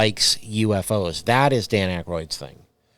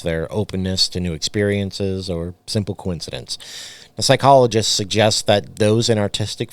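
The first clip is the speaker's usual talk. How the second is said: reading a script aloud; spooky documentary read; podcast narration. Acted. Reads scripted podcast segment.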